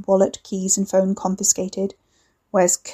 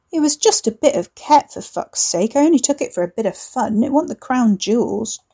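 defensive protest; 3 semitones higher than usual. Acted. Wes protesting to enforcer.

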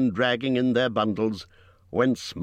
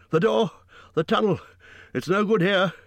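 much higher, panicked and pressing; urgent warning; 11 semitones higher, 4 dB louder, faster than usual. A narrator's reading. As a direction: push the others toward safety in alarm. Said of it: "he gasped".

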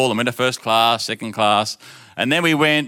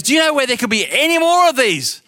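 much higher, louder put-on principal voice; stern principal; 12 semitones higher, 3 dB louder than usual. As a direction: play the principal scolding the boy. Principal questions the boy.

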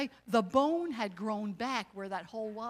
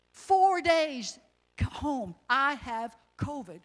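stunned disbelief; 4 semitones higher, 6 dB louder, much slower than usual. Real, not acted. Disbelief at catching covid.

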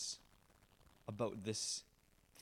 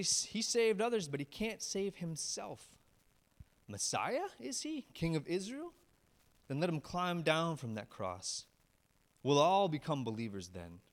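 mocking jeer; 3 semitones higher, 4 dB louder than usual. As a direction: scoff at his claims. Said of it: "poking fun at Jesus".

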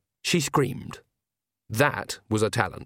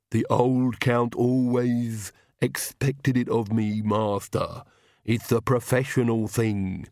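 slow, comic lisping henchman; Igor; slower than usual. A narrator's reading. Servant explaining himself to the Count, slow lisping henchman. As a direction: drag it out in a ridiculous servant voice. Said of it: "the ridiculous voice".

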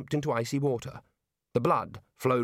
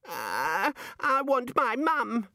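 put-on high, slow childish wail; sniffling small child; 11 semitones higher, much slower than usual. A narrator's reading. Child-sized wizard wants his mother, sniffly high whine. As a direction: whine high like a lost little kid. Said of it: "the little nose sniffed".

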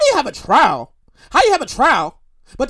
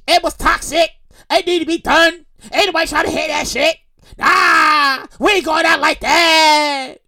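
dismissive mock Pelosi; slower than usual. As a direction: wave it off, drawn out and unbothered. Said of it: "I mean, she didn't say it like that".

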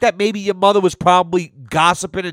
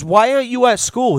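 put-on higher, incredulous question to a little kid; 7 semitones higher than usual. Repeating the question to the truant kid, incredulous. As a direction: ask it again in mock disbelief. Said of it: "I says".

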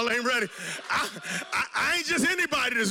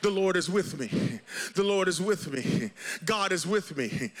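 self-reassurance; 7 semitones lower than usual. Shown as a demonstration. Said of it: "You have to keep saying to yourself".

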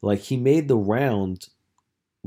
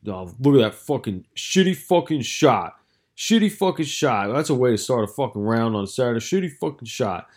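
sour attitude. Retold or imitated. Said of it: "He's just got the sour attitude".

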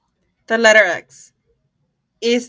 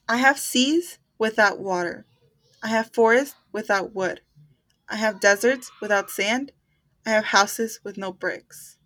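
slow riddle reading; slower than usual. Shown as a demonstration. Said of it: "reading riddle slowly".

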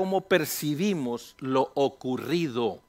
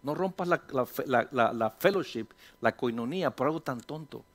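God's voice; 2 semitones lower, 7 dB quieter than usual. Acted. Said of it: "Dios me habla y me dice".

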